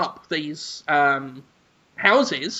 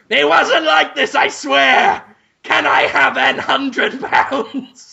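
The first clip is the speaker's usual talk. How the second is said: lightly voiced outraged buyer, higher; indignant buyer; 4 semitones higher than usual. Buyer complains to the estate agent, lightly acted indignation. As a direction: complain like an insulted client. Voices Hugo Weaving arguing.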